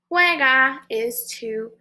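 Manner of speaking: hushed unvoiced whisper. Shown as a demonstration. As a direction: whisper the new word. Whispered vocabulary.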